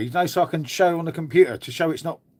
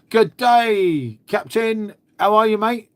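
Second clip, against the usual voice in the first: higher, louder Australian greeting; Australian accent; 6 semitones higher, 4 dB louder, slower than usual. Retold or imitated. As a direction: greet him like a cheerful Aussie mate. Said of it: "Our friend down under".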